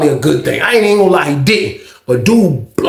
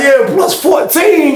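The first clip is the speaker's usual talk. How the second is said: deadpan joke; 11 semitones higher, much slower than usual. Retold or imitated.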